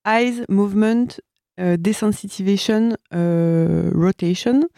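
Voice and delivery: slow, deliberate English accent on the English terms; half-joking English accent; self-mocking English accent. Shown as a demonstration. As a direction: read the English words with an exaggerated English accent. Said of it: "mon magnifique accent anglais".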